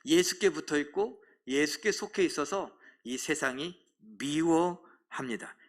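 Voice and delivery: ordinary delivery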